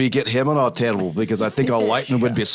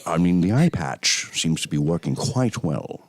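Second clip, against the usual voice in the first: Sean Connery impression; 4 semitones lower than usual. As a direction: savour each word like Connery. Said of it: "I can do a really good Sean".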